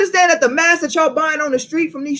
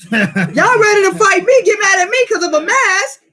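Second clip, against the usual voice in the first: heated rant; 7 semitones higher, 4 dB louder than usual. Real, not acted. Preacher to congregation angry over masks, loud rant. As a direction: call them out hard.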